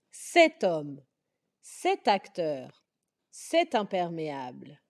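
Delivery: cet homme avec la liaison, le t lié au mot suivant; bien lier cet homme et cet acteur; liaison demo. Shown as a demonstration. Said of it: "il faut faire la liaison". (prononciation avec liaison)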